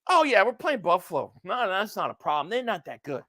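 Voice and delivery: dismissive, imitated overconfidence; mock dismissive. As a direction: imitate someone shrugging off the threat. Voicing dismissive people he disagrees with.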